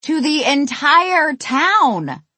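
super dramatic, high and slow; exaggerated intonation. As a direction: proclaim it like a doomsday warning. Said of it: "I said it in a super dramatic voice".

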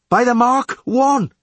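high, slow, loud sounding call; leadsman's yell. A narrator's reading. Leadsman calling the depth to skipper, slow high yell. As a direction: yell it drawn out across the boat. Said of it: "yelled the leadsman".

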